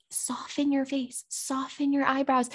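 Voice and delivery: gentle coaxing. Retold or imitated. Mother to her scowling five-year-old, gently coaxing.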